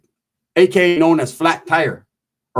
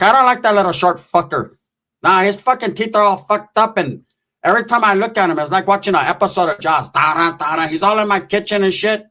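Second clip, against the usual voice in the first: lightly voiced aunt, pitched up; complaining aunt; 3 semitones higher than usual. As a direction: grumble like an aunt refusing a guest. Acting out tia's refusal on phone.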